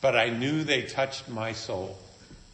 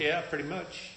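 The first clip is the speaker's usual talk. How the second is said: laughing reply; 3 semitones higher than usual. Retold or imitated. His amused reply.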